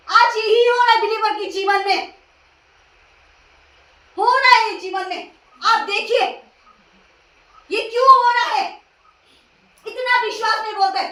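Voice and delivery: impassioned preaching. Acted. Preacher asking believers why losses happen, impassioned. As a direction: press the question on the congregation.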